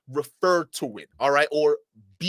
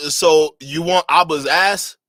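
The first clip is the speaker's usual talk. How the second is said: mocking; 9 dB louder, slower than usual. Real, not acted. Mocking the man in the clip.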